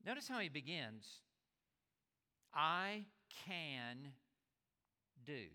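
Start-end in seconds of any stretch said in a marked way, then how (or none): 2.5-5.4 "I" "can" "do" spaced out, each word alone; stress on each word. Shown as a demonstration. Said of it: "He does not say".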